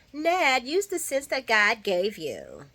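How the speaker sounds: high on "Ned", then slow and pointed; scolding mother. Retold or imitated. Lois scolding Ned about Brooklyn's career: slow pointed reproach. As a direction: talk down to him like a scolding mom.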